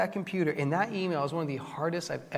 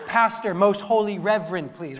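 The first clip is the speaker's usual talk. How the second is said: louder, higher demand for respect; mock indignation; 3 semitones higher, 4 dB louder than usual. Preacher to his audience, playing slighted pastor, mock indignant. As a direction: jokingly insist on a grand title.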